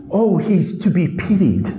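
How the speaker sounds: mocking sentimental pity; hammed-up pity for a victim. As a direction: sigh it out like a syrupy film.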